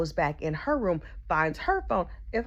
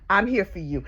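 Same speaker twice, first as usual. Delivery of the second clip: sympathetic. Retold or imitated. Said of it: "that's what I said to him".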